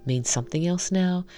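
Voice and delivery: reading a visual novel story aloud, evenly; story narration. Acted. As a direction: narrate the scenes and voice the heroine lightly.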